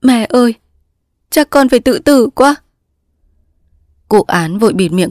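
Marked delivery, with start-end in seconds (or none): 0.0-2.6 high, tearful daughter; distraught daughter crying to her mother; still sobbing. Acted. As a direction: plead through tears, pitched high. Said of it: "Cúc vẫn nức nở khóc".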